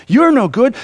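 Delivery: YOU'RE hit high and loud; loud accusing taunt. Retold or imitated. Enemy's accusing voice retold.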